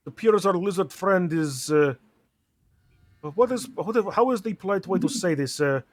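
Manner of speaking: put-on light Transylvanian vampire accent; lightly voiced Dracula-style vampire. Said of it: "I love the vampire voice".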